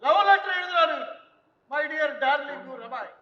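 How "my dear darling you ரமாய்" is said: mock reading. Father mock-reads son's love letter.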